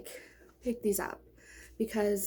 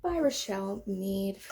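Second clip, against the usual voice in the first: out of breath; slower than usual. Real, not acted. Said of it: "Oh my gosh, I'm out of breath".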